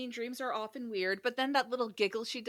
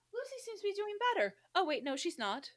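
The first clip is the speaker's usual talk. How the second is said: mock narration; 8 semitones higher than usual. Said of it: "a constant string of".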